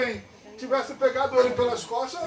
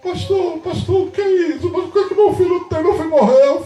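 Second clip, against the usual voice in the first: high, hurried worried questioning; alarmed parent; 5 semitones higher than usual. Retold or imitated. Parents rushing to the pastor about their son, alarmed.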